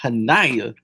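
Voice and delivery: Hanaya as ha-NAI-ya, falling at the end; correct name stress. Shown as a demonstration. Teaching the co-host the name, Hanaya stressed on NAI. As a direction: put the weight on NAI in Hanaya. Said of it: "get the emphasis on the right words".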